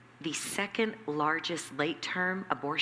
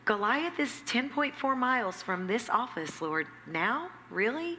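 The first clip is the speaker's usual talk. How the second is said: higher, slow, incredulous protest; disbelieving plea; 7 semitones higher, slower than usual. Retold or imitated. Talking back to God about the clinic, high and incredulous. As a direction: stretch it out then jump up on Really in disbelief. Her own reply to God.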